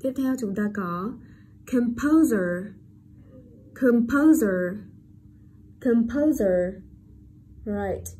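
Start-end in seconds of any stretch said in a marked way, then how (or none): 1.7-6.7 composer carefully, with the s said as z; voiced z. Shown as a demonstration. Teacher drills the S, composer with clear z. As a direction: model "composer" with a buzzing Z. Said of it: "S ở đây được đọc là".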